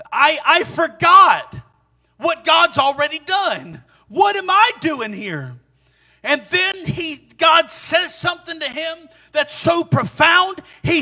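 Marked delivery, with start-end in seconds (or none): 0.1-5.6 high, slow, drawn-out realization; dawning self-questioning. Acted. Elijah realizing he forgot God, high, slow self-questioning. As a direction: stretch each phrase high, as it sinks in. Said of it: "begins to ask himself the question".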